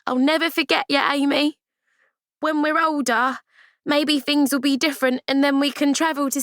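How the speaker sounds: put-on young girl voice. Ruth promising, higher girl voice.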